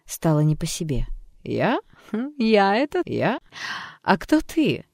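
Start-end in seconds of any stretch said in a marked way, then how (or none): 1.4-4.9 higher, toying and capricious; mocking alter ego. Alter ego teasing the therapist, capricious and high. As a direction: play with the question like a sly child. Alter personality mocks doctor.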